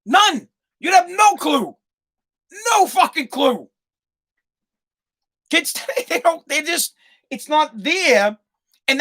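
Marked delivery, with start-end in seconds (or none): 0.0-3.7 insistent. Acted. Comic insistence to audience.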